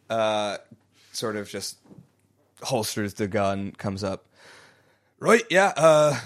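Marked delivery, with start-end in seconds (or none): 5.2-6.2 high voice breaking into laughter; laughing guard voice. Acted. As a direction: try a gruff guard but laugh.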